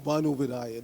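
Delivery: "Banu" begun with a v sound, as vanu; "Banu Vidaya" said as vanu viddhaya; sandhi joining. Shown as a demonstration. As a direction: attach the v to the front: vanu-viddhaya. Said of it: "The V goes with the next".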